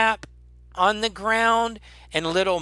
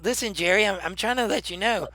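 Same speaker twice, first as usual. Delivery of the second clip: insistent goblin; 4 semitones higher, faster than usual. Acted. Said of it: "and he says".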